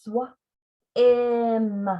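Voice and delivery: swim split into swa- and im; blend and rest split. Shown as a demonstration. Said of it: "or swim".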